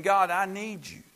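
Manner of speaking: rising, urgent "God, I need you"; pleading prayer. Acted. Preacher voicing the church's prayer, rising urgent plea. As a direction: plead with God, building each line. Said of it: "We're saying".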